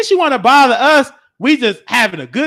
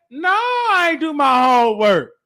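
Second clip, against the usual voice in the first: put-on shouted childish no; defiant shout. Kid shouting at teacher he skipped homework, defiant. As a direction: yell the answer back at the teacher.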